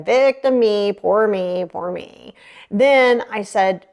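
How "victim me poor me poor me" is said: self-mocking poor-me refrain; mock self-pity. Client doing the victim thing, mock self-pity. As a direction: chant it as a pity party, fading away. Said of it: "I did all the victim thing again".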